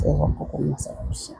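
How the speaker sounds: quick hushed whisper. Real, not acted. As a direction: whisper it to the camera. Whispered aside while tasting.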